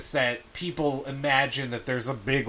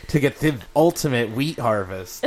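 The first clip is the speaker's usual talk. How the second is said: clickbait ad voice; 4 dB louder than usual. Acted. Clickbait ad parody.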